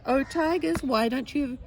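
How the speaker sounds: high-pitched storybook call. Acted. Little boy calling to distant tigers, high call. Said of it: "jumped up and called out".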